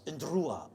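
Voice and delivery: "Ndrua" opening on an N-D sound; ND, rolled R. Shown as a demonstration. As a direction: roll the R in "Ndrua" after a nasal ND. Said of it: "D is an N D sound and you roll the R's".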